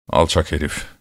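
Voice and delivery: low resentful grumble; hınçla homurdanma. A narrator's reading. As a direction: grumble it under your voice with a touch of spite. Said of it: "Asker hınçla". (alçak perdeden hınçlı homurtu)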